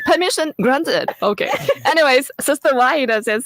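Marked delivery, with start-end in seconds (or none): 0.1-1.1 lifted, playful permission granted; mock formal grant, higher; playful higher repeat. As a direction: say it again brighter and higher, teasing. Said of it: "say it in an Indonesian accent".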